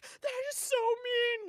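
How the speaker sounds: put-on squeaky high, slow kid voice; high-pitched mock offense; childish high voice. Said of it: "I would be like".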